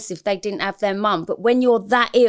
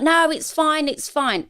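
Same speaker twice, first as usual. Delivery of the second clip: brushing it off; 8 semitones higher, slower than usual. Retold or imitated. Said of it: "but I'll be like".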